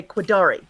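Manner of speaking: Quadari, stress on the second syllable; model pronunciation. Shown as a demonstration. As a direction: say Quadari with the weight on da. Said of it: "emphasis on the second syllable".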